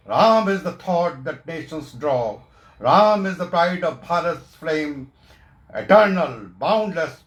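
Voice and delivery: devotional poem recitation. Acted. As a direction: proclaim each line of verse to an audience.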